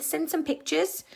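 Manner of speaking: normal talking voice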